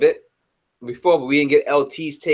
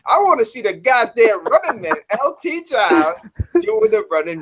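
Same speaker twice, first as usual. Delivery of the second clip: excited demand; 5 semitones higher than usual. Real, not acted. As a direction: pitch jumps up, pushing hard. Demanding the Running Man dance.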